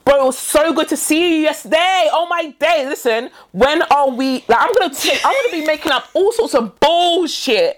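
slow, stretched-out hype; mock-enthusiastic chumminess. Making up a prank voice note, mock enthusiastic. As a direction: lay it on thick like an old friend. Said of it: "And be excited".

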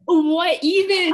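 slow, high disbelieving what even; drawn-out baffled question; stunned and confused; bewildered. Real, not acted. Bewildered at Kuro's handshakes.

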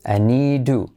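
"need to" with the D tapped like a soft R. Shown as a demonstration. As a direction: say "need to" with a light flapped D. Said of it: "D como R suave".

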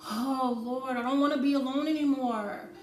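whiny, pleading lament to the Lord, lightly acted; a touch of a lonely, sorry-for-herself plea; mock self-pity. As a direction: moan to Jesus about being alone. Voicing lonely self-pity thoughts.

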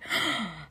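sharp audible breath; worked-up intake of breath; exasperated gasp. Real, not acted. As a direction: gasp in frustration. Worked up about being mad.

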